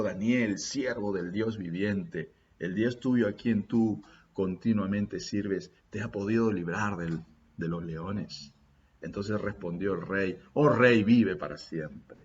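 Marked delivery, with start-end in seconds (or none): 0.0-8.5 sad voice. Acted. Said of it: "con voz triste". 10.5-12.2 calling out. Acted. Daniel calls out to king.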